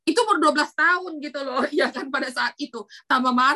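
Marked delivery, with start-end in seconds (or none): none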